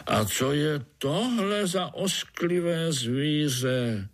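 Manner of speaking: high, slow drawn-out question; disgusted old spider. A narrator's reading. Old spider pointing at the frog by the pool, slow disgust. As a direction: stretch it out in distaste.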